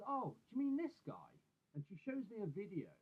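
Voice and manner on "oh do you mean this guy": much higher, louder voice for mum; imitating mum. Mum recognising the man from her son's story, high-pitched imitation. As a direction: lift it high as a mother's surprised question. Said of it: "my mum says".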